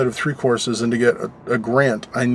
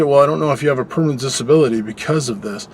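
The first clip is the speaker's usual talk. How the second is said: quoting the doctor; faster than usual. Retold or imitated. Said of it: "for my doctor to say".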